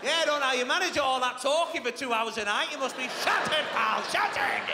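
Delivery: mock him with fake sympathy; sarcastic brother. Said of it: "him seething at the other end of the phone".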